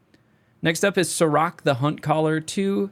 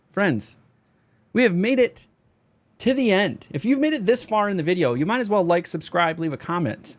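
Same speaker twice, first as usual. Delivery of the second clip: excited outro; 6 semitones higher than usual. Real, not acted. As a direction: hype up the viewers. Outro call to subscribe.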